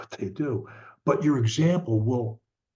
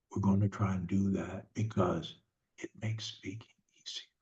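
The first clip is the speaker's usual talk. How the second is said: gentle parent; 2 semitones lower than usual. Acted. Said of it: "in those conversations, we just say".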